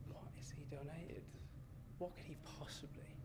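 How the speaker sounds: breathy whisper of curiosity; hushed wonder. Retold or imitated. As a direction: whisper it, wide-eyed. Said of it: "And we were like".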